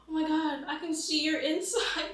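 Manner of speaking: loud, high-pitched squeal; horrified shock. Retold or imitated. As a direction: exclaim it high in grossed-out alarm. Horrified at uncle's cut wrist.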